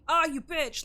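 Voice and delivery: high, loud mock yell at the screen; mock gamer rage. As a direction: act out getting killed, mild fake fury. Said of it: "I'll say things like".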